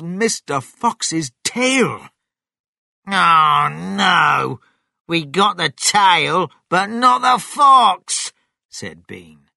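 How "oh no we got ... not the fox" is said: loud, high cry of frustration; exasperated farmer shouting; dismayed shout. Acted. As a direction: wail loudly over the failure. Farmer dismayed at failed shot.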